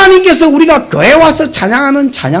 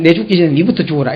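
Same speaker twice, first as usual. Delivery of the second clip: mock curse; 4 semitones lower, 4 dB quieter, faster than usual. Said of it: "이라고요".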